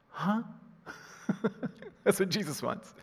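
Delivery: high questioning grunt; puzzled. Acted. Preacher showing how Jesus wants listeners to react, puzzled. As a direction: act out not quite catching it. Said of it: "wants people to do this".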